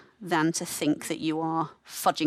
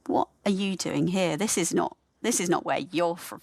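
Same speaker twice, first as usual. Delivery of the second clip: inner critic. Retold or imitated. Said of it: "tells me".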